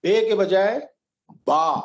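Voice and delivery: Arabic ba instead of Urdu be; Arabic letter name. Shown as a demonstration. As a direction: end the letter on a long aa. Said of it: "آ میں بدل دینا".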